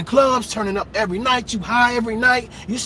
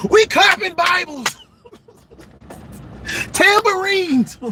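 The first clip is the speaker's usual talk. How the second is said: laughing; 6 semitones higher than usual. Real, not acted. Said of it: "joking church image".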